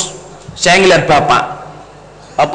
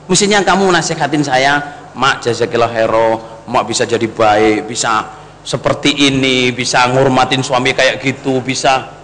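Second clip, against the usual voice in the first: soft, lower, slow mother's voice; slow gentle words; 7 semitones lower, 4 dB quieter than usual. Retold or imitated. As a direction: speak gently and slowly, a touch tearful. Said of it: "Dia ngomongnya pelan-pelan". (lembut dan pelan, sedikit menahan tangis)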